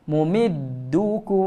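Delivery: slow Mumiddukum with hidden mim; lips barely closed. Shown as a demonstration. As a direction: keep the lips from sealing on Mumiddukum. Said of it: "jangan rapat bibir mulut".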